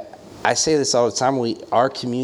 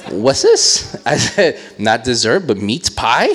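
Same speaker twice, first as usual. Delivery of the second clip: animated; 3 semitones higher, 7 dB louder, slower than usual. Retold or imitated. Loud retelling of food talk.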